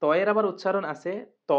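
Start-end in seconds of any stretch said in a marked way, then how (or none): 1.5-1.5 "ত" said thick from the tongue tip; "ত" as a heavy Arabic emphatic t. Shown as a demonstration. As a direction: make "ত" full and heavy. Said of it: "জিহ্বার আগা থেকে মোটাভাবে আদায় হবে".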